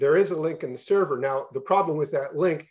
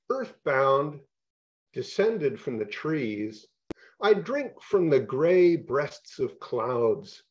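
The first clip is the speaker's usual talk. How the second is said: slow, measured poetry reading voice; deliberate spoken-word delivery with long pauses; poem reading; slower than usual. Acted. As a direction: let each line land slowly, like a poet at a reading. Poet reads his poem aloud.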